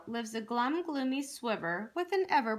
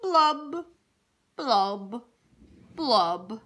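three heavy blubs, stepping down in pitch; glum fish blubs; 2 semitones lower, 6 dB louder, much slower than usual. Acted. Fish spreading the dreary wearies, mildly glum. Pouting fish's dreary refrain.

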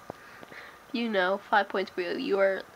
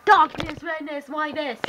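loud, high announcer cry; dramatic intro call; 5 semitones higher, 3 dB louder than usual. Shown as a demonstration. Showing viewers the intro card, loud and high. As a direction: belt the intro title out. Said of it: "you'll get to see it".

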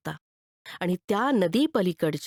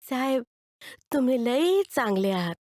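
put-on the kid saying it once more; grateful boy again; 3 semitones higher than usual. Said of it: "ते परत पोर बोललं".

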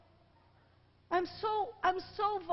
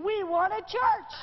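retold crowd scream; 3 semitones higher, 5 dB louder than usual. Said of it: "they start screaming".

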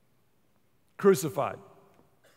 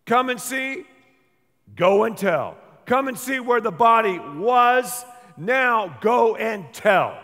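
loud, ringing call to come and see, go and tell; the angels at the empty tomb, loud and commanding; angels' proclamation; 2 semitones higher, 5 dB louder, slower than usual. Retold or imitated. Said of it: "these angels pretty much say".

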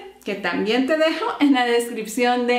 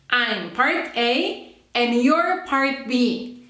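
slow explanation; slower than usual. Shown as a demonstration. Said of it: "do the exercise together".

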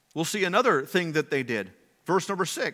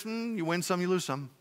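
softer, offhand shrug of a reply; mock nonchalant shrug; 6 dB quieter, faster than usual. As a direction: toss it off as if you don't care. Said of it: "this nonchalant reaction".

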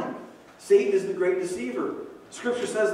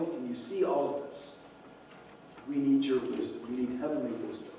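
prayer; 2 semitones lower, 7 dB quieter than usual. Acted. Voices a prayer to God.

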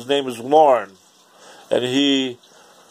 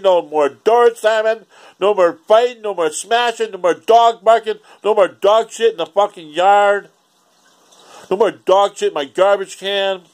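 rising rant; 5 semitones higher than usual. Real, not acted. Ranting about old neighbors.

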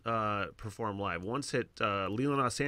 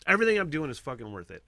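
louder, faster fired-up repeat; excited; 2 semitones higher, 5 dB louder, faster than usual. Retold or imitated. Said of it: "I'm like".

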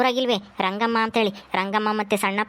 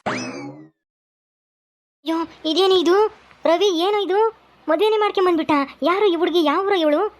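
stunned, raised alarm; shocked outcry; 7 semitones higher, slower than usual. Acted. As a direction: recoil in disbelief at the news. Shocked at son's marriage.

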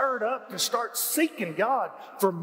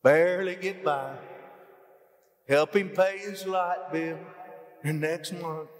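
slow, meek, half-mocking prayer; mock poverty prayer, slowed and pleading; timid little prayer; 3 semitones lower, slower than usual. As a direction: drag it out like a pitiful plea. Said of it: "They're not saying".

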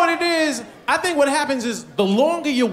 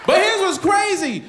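ordinary talk

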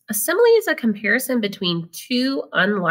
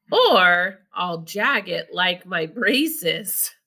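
put-on lively picture-book read-aloud for kids; reading to children; slower than usual. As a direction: read it like story time for a class.

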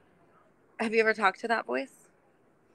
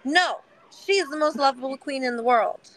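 protective defender; 5 semitones higher than usual. Pretend. Coach shielding client from her critic voices, protective and high. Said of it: "I'm like".

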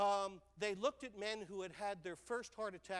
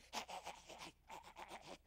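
mock odd laugh; 2 semitones lower, 11 dB quieter than usual. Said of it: "It's like".

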